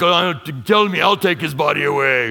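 lightly put-on Mary Magdalene; playful imitation of a strong Mary. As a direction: toss it off in a mock strongwoman voice. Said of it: "Mary Magdalene was like".

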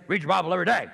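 cheeky parroting, laughing; obnoxious mocking. Friend in the car teased with a mock catchphrase. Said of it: "So I'm just being obnoxious".

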